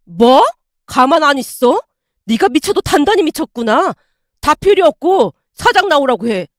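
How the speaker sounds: a hammed-up shout for the boss; a customer yelling for the owner, lightly shouted; mock yelling. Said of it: "고래고래 소리를 지르며".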